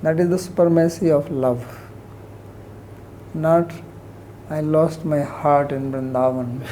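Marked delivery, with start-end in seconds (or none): 4.5-6.6 mocking a gushing devotee, half-laughing; hammed-up lovesick pilgrim, laughing through it; mock sentimental devotion. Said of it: "putting on the".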